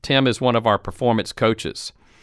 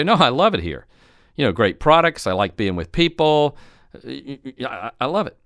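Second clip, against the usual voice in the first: good attitude; 2 semitones higher than usual. Acted. Employee defending the job to a shopper, good attitude. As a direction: play a worker who likes the job. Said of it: "they have a good attitude".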